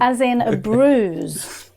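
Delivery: "bruise" stretched out slowly with a buzzing z; careful explanation. Shown as a demonstration. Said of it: "I thought that it was bruisey".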